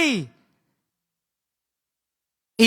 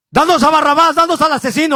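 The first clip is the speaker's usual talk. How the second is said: crowd demand; 3 semitones higher, 4 dB louder, faster than usual. Retold or imitated. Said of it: "es lo que estaban diciendo".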